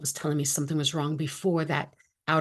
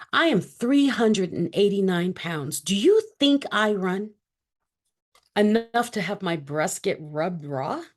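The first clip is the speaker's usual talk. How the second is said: mildly incredulous comeback, punched words; indignant retort; 2 semitones higher than usual. Retold or imitated. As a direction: push back in mild disbelief at the doctor. Retorting to dismissive doctor.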